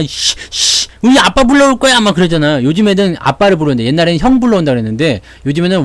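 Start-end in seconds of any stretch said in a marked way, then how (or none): 0.0-2.0 put-on sulky child threatening to fetch dad; a kid in a fight yelling he'll get his dad; bratty kid threat. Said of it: "꼬맹이들이 막 싸우면 그러잖아".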